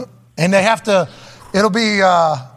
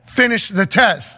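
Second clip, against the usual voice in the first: yelling; 3 semitones higher, slower than usual. Pretend. Proctor yelling at test taker.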